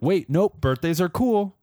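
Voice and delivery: high, bright flip-flop; chirpy mock church voice, voice up high; mock Christians. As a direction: pitch it way up, playfully backtracking. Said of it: "they flip-flopped and they were like".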